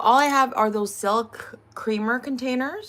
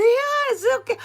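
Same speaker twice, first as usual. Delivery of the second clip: high, louder mock-polite reassurance; imitated polite, kind owner; 12 semitones higher, 6 dB louder than usual. Owner excusing the embarrassed customer, imitated kind reassurance. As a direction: wave it off kindly, pitched up. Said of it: "so polite and kind".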